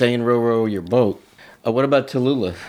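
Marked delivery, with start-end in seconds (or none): 0.2-1.2 mock flat reading. Shown as a demonstration. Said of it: "just flat".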